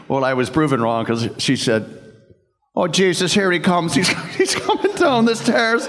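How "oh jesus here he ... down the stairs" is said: put-on Irish accent. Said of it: "she still did the Irish accent".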